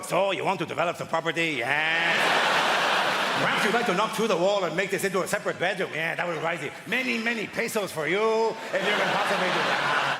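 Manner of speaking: lightly hammed-up Mexican accent. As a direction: put on a mock Mexican accent. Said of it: "She can do the accent".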